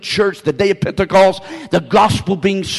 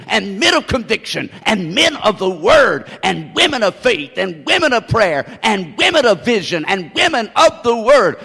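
rhythmic preacher's litany; fervent sermon roll, each item punched; rousing preaching; 3 semitones higher than usual. Real, not acted. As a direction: build the list with a driving, repeating cadence.

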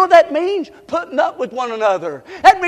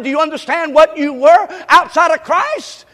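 same question, louder and pressed harder; louder repeat; 4 semitones higher, 5 dB louder than usual. Shown as a demonstration. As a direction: drive the question home louder. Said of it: "I said".

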